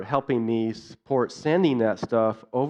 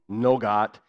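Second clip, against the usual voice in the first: patient in Pidgin; 2 semitones lower than usual. Retold or imitated. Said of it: "share with you a little bit of what that was like".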